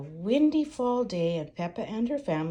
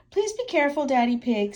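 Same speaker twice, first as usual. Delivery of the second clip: worried mother voice; 6 semitones higher, 6 dB louder, faster than usual. Acted. Mummy voiced in story.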